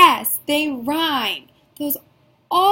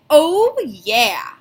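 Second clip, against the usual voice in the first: excited "oh yeah"; 3 semitones higher, 7 dB louder than usual. Shown as a demonstration. Teacher cheering oh yeah to excite the class. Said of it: "Give me a big".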